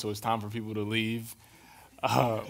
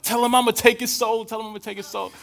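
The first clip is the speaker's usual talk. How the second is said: mock spooky taunt; 11 semitones higher, 7 dB louder than usual. Friend jokingly taunts over speakerphone.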